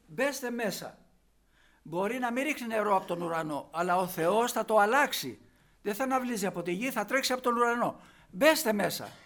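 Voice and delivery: ordinary talk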